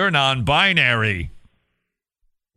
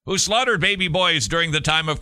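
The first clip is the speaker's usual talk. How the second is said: whipped up; 4 semitones higher than usual. Pretend. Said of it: "get you really excited and agitated".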